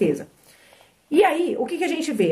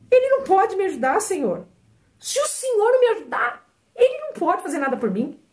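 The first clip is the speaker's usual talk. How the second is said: clamor agudo e sentido, relembrando a oração; súplica chorosa; 6 semitones higher than usual. Retold or imitated. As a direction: implorar a Deus em voz mais alta, quase chorando. Oração desesperada relembrada no quarto. (ela clama ao Senhor no quarto, voz súplice mais aguda)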